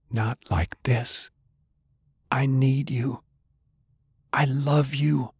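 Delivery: slow, high, soft and breaking; last tender words to the dying woman, softly breaking; grieving plea. A narrator's reading. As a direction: let it crack with grief. Lover dying in his arms.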